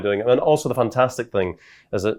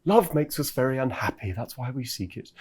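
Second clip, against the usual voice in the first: Alain de Botton; 5 dB quieter than usual. Retold or imitated. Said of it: "I enjoy doing Alain de Botton".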